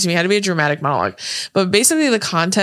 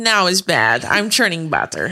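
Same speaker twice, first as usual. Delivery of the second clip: lightly put-on Russian accent; imitated Russian accent. Showing a friend how she says it, imitated Russian accent. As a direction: imitate the movie's Russian lady, accent and all. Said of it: "That's how she says it".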